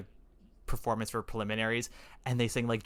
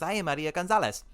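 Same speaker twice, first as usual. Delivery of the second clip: put-on Maria Gonzalez introducing herself in a thick Latina accent, a bit higher; 5 semitones higher than usual. Maria greets the judges in a thick Latina accent. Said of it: "you know, her thick accent".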